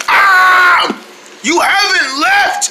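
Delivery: startled high cry; surprised. Acted. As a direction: jump at the sight. Startled on waking.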